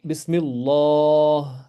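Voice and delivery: Bismillah ending on a stopped, sakin h. Shown as a demonstration. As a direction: say Bismillah slowly, stopping on the final h. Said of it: "So, ha becomes sakin".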